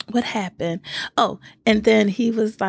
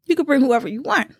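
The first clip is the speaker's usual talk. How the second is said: lightly imitated man, pitched higher; Courtney; 6 semitones higher than usual. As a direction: quote him in a lightly put-on, higher voice. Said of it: "Now, this is Courtney talking".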